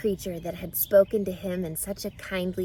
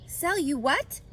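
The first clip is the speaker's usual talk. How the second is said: higher, startled pig; cried out; 7 semitones higher than usual. Acted. Wilbur startled by the hidden voice, crying out. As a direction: jump up startled and ask. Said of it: "he cried".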